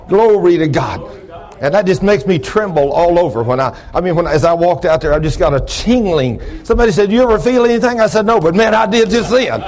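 worked-up preacher, pitched high; excited testifying. Real, not acted. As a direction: testify as if still tingling with it.

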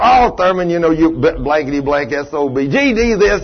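a hint of a gruff old man cussing; mildly hammed-up cranky old mechanic's customer; rough old cusser. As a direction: lightly play the foul-mouthed customer. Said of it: "that's the way he talked".

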